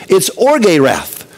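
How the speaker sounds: orge said slowly as "or-gay"; slow emphasis on orge. Shown as a demonstration. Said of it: "what the Greek word is".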